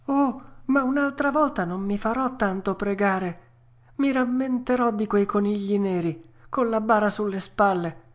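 high-pitched puppet promising; Pinocchio, earnest. Acted. Puppet promising the fairy, high and earnest.

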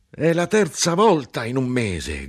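high, loud, slow outraged cry; angry shout. A narrator's reading. The grinder shouts about the monthly fines, outraged. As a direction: rage at the third fine. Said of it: "gridò".

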